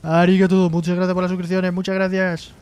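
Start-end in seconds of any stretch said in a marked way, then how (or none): 0.0-0.7 loud arigato. Shown as a demonstration. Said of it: "se lo hago en japonés".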